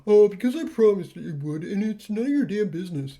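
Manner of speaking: lightly voiced lazy skeleton; Sans voice. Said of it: "I wanna give Vriska the Sans voice 'cause it's funny".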